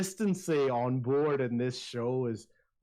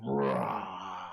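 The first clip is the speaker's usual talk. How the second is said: tiger roar; 7 semitones lower than usual. Acted. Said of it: "this tiger is wrapping around your legs".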